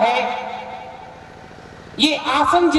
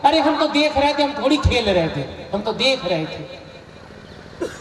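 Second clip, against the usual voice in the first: son's excuse. Retold or imitated. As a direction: play the sheepish kid, laughing it off. Son making excuses to father.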